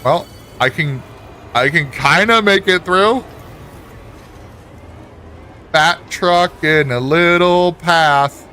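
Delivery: loud, tense narration of a tight squeeze; loud straining. Real, not acted. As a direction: push the words out under strain. Straining to squeeze truck through.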